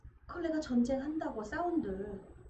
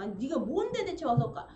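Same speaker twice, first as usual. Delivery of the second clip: annoyed Heracles. Retold or imitated. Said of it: "막 열받아 죽겠네".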